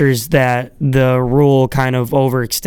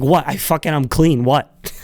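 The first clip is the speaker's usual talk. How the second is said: dismissive protest. Retold or imitated. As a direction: brush off the check with a shrug. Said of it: "He's like".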